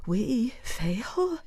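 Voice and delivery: timid whispered question; uncertain whisper. Shown as a demonstration. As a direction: breathe it out unsure and scared. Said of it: "equally uncertain".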